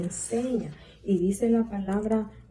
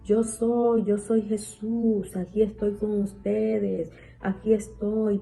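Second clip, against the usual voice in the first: lightly acted, drawn-out words of reassurance; slightly raised preacher's voice, stretching the key words; Jesús. Speaking to frightened disciples at sea, lightly acted reassurance. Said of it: "Jesús le dijo".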